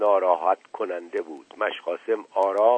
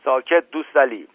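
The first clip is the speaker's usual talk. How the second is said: restrained narrated shout; mild shouted command, higher pitched; 4 semitones higher, 4 dB louder than usual. A narrator's reading. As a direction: raise your voice to silence him. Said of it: "دایجان فریاد زد".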